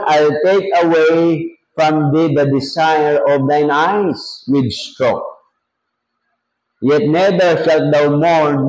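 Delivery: deliberate Bible reading, slowing as it goes; measured pulpit reading; scripture reading. Acted. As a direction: read out the verse with drawn-out phrases. Reads scripture aloud to congregation.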